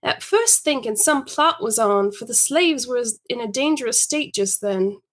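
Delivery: measured period-story reading; story narration. Acted. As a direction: read it aloud as a storyteller. Reads the story aloud.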